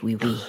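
oui, oui said the French way, like English "we". Shown as a demonstration. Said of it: "This is the French".

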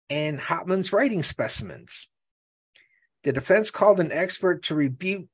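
measured trial narration; article read-aloud. Real, not acted. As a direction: read the evidence out from the page.

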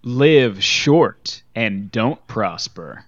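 very slow solemn parody line; slow sci-fi parody. Acted. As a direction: drag it out like a mock Vulcan. Parodying a Star Trek line.

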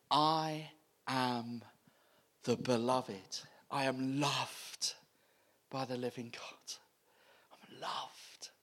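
soft, sinking to a whisper; quiet confession. Acted. Believer assuring herself of being loved, whispered. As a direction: murmur it to yourself like a secret. Voicing believer's inner confidence.

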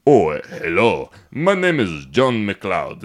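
Canadian milk ad spokesman. Retold or imitated. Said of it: "Canadian news be like".

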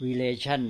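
relation with the stress on LA; stress example. Shown as a demonstration. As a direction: stress the middle syllable of relation, re-LA-tion. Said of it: "เน้นคนละที่ ออกเสียงคนละอย่าง".

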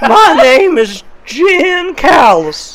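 slow, drawn-out djinn intro; the djinn announces his name to the table, slow and drawn out. Acted. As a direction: stretch each word like a grand spirit. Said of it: "this is what he sounds like".

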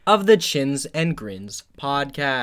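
PODCAST said out slowly and clearly; slow, careful "podcast" after being corrected; corrected pronunciation. Real, not acted. Host redoing the show's name for the co-host, carefully enunciated "podcast". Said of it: "I think you pronounce it podcast".

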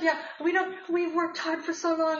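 put-on Russian accent. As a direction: voice the friend, a mild Russian lilt. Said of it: "with a fabulous Russian accent".

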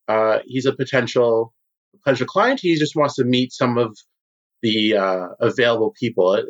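high, eager host voice, pitched well up; smooth guild boss Moranis. Acted. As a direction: play the slick host showing off a new client. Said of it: "and says".

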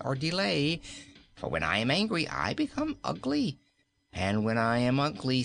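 a queen toying with her captive, lightly voiced; cheerful threats from a cruel queen; cruel queen, cheery then menacing. Queen warns her new page, cheerfully menacing.

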